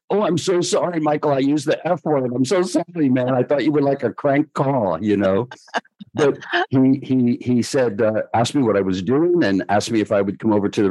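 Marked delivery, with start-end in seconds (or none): 0.1-5.5 embarrassed apology. Retold or imitated. Apologising to a famous singer.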